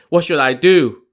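high, loud wail of dismay; moaning. A narrator's reading. Li Kui confesses to Daizong, moaning helplessly. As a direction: wail helplessly at your own mistake. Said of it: "Li Kui moaned".

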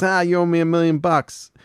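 high, loud gloating; Dale gloating. Retold or imitated. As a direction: rub it in. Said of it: "So he goes".

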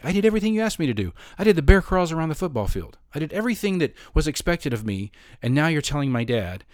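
high, fast, betrayed pleading; indignant inner protest. Retold or imitated. To the coach in his head, hurt and indignant. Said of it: "In my mind, I'm like".

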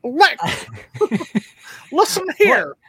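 imitated Virginia accent. Mimicking her sister talking to Alexa. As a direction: do Sonia's accent big and high. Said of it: "how she was like".

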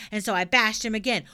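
put-on loud, bold little girl; cheeky girl voice. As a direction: blurt it out brashly. Pippi tells a tall tale.

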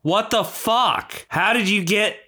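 high-pitched indignant demand; aggrieved accusation. Acted. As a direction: plead and accuse at once. Accuses rival again.

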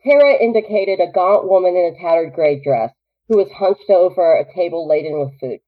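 measured read-aloud narration; story narration. A narrator's reading. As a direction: drop back to an even storyteller's read.

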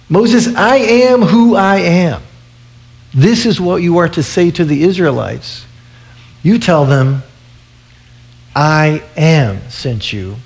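a hint of a booming God. God speaks to Moses.

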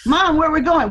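put-on high-pitched, amused child's question; child asking Mom. Daughter re-enacting asking Mom, high playful voice. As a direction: play the kid, voice lifted high, laughter creeping in.

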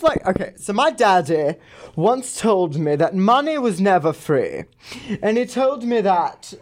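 prank caller in a mock gay-to-British voice; put-on Valley accent. Prank caller thanking a scammer, mock Valley accent. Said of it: "I don't even know what accent I was doing".

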